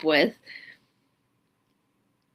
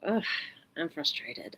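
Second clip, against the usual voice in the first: calm acknowledgement; 2 semitones lower, 10 dB quieter than usual. Shown as a demonstration. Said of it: "maybe you just notice it".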